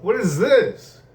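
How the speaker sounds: slow, high, drawn-out disbelief; stunned what. Real, not acted. Eating a Twix, stunned by how good it is. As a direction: gasp it out in amazed disbelief.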